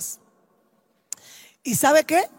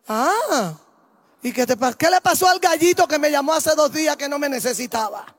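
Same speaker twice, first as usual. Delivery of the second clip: teasing, louder sing-song jab; mocking mother; 3 dB louder than usual. Mother teasing the son who said he didn't need her, sing-song mock. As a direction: needle him with a sing-song tease.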